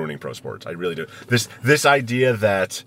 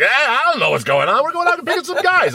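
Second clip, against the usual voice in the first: put-on much higher, broad Boston accent; Mike Donahue Boston accent; 4 dB louder than usual. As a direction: imitate a big Boston hockey GM accent. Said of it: "big Boston accent".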